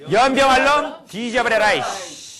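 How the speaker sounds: loud, high-pitched furious curse; heartfelt cursing. Shown as a demonstration. Lecturer leading the audience in cursing the water, wholehearted fury. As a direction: curse with everything you've got. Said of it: "어떤 마음으로 하셔야 한다고요".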